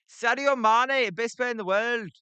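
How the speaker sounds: put-on Scouse accent. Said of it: "That is as good as you're gonna get".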